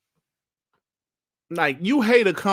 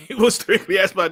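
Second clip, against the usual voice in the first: "He was strictly Xbox" said through a laugh, a little louder; 2 semitones higher, 4 dB louder than usual. Real, not acted. Streamer laughing at a rival who only covered Xbox.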